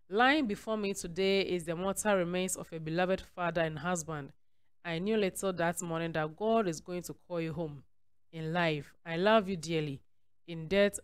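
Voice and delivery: measured, deliberate reading of a written tribute; formal read-aloud with spaced phrases. Acted. Reads a widow's tribute aloud.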